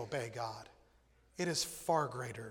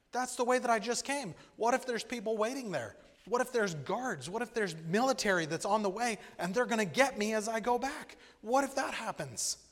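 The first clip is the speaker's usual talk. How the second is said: high, loud, panicky what-ifs; panicked Elijah; 7 semitones higher, 6 dB louder than usual. Retold or imitated. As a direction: voice Elijah's rising panic at going back. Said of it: "but I'm like".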